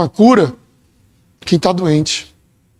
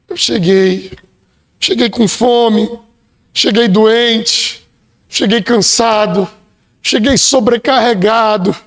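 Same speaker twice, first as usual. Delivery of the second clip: humble prayer; slower than usual. Pretend. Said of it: "Então chegue diante dele e fala".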